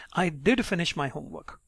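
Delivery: "did" stressed with a little pitch lift. Shown as a demonstration. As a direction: lean on "did" to set someone straight. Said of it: "your pitch goes a little high on did".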